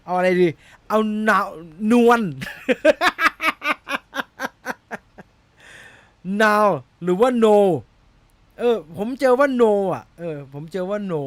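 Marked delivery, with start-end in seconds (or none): 2.3-5.0 high bursting laugh; burst of laughter. Real, not acted. Vlogger cracking up over how to read the name, high laugh.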